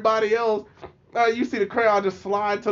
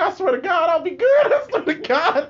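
mock plea; 9 semitones higher, 4 dB louder than usual. Pleading to mom, retold laughing.

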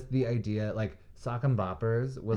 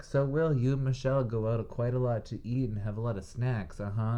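teasing game show host; 3 semitones higher than usual. Retold or imitated. Game show host quizzing husband.

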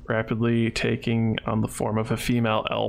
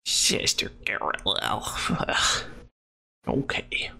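unvoiced breathy whisper; 4 semitones lower, 4 dB quieter than usual. Real, not acted. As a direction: say it under your breath. GM whispering aside.

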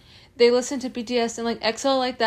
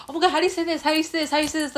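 pestering fans; 4 semitones higher, much faster than usual. Retold or imitated. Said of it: "they ask me, like".

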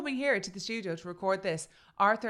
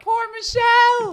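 mock pity; 15 dB louder, slower than usual. Teasing cry of sympathy.

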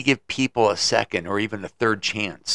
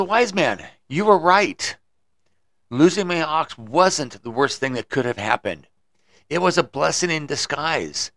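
excited farmer; 4 semitones higher, 3 dB louder than usual. Acted. Farmer excitedly thanks wise man.

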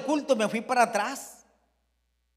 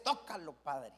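soft, low, pleading prayer; hushed pentecostal plea; 8 semitones lower, 12 dB quieter, slower than usual. Retold or imitated. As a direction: breathe it out as a fervent whispered prayer. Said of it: "Una expresión muy, muy pentecostés". (súplica pentecostal en voz baja)

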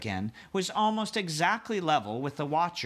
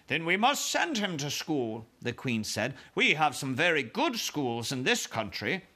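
queen voice. Acted.

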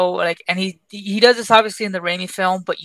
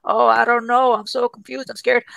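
timid, frightened whimpering tone; weak scared voice; 3 semitones higher than usual. Retold or imitated. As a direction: sound weak and unsure. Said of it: "He sounds, like, weak".

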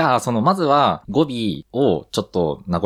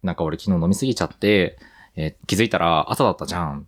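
Mikawa dialect; 2 semitones lower than usual. Shown as a demonstration. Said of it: "じゃんに置き換える".

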